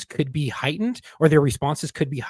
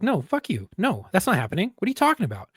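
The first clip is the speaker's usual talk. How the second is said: higher mock protest; retold outrage; 5 semitones higher than usual. Officer refusing the lieutenant's order, indignant. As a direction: push back in disbelief, a bit higher. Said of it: "I was like".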